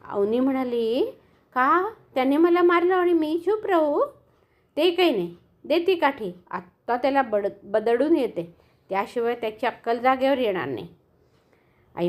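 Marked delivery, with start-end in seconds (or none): 1.5-10.9 insist, fuming; defiant anger. Acted. Girl demanding the stick from mother, indignant.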